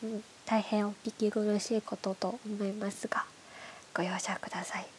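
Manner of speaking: stuffy nose from hay fever; nasal voice. Real, not acted. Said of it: "鼻詰まりの鼻声で喋ってます".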